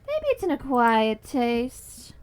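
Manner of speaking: drawn out slowly, x0.6; slow mock-wise delivery; slow knowing. Shown as a demonstration. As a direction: stretch each word with a wry knowing tone.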